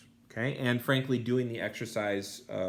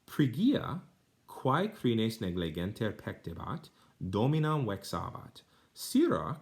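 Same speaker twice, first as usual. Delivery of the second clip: careful, expressive reading of a Latin story; Latin reading aloud; 4 semitones higher than usual. Shown as a demonstration. Reads Latin passage aloud.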